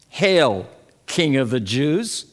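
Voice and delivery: mild mock homage, lifting at the end; mocking hail. Soldiers mocking Jesus in prison, mildly mocking. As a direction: hail him with a touch of mockery. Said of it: "mocking him".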